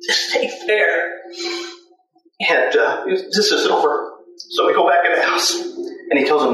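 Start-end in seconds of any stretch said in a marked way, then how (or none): 0.1-4.1 retold bawling. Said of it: "he's bawling".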